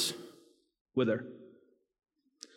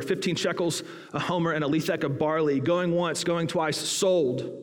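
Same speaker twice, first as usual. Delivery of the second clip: auctioneer. Acted. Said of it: "The auctioneer starts the bidding".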